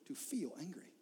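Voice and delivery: whispered emphasis; hushed. Real, not acted. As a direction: drop to a whisper to land it. Whispered sermon point.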